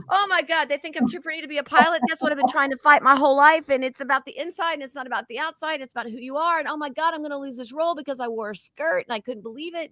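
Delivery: high mock panicked rant; hammed-up high frantic self; retold dismay. Herself reacting to the pretty remark, high mock panic. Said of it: "I'm like".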